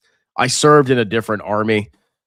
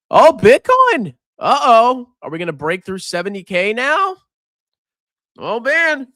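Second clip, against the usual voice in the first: excited; 9 semitones higher, 4 dB louder than usual. Real, not acted. Watching Bitcoin near seventy K.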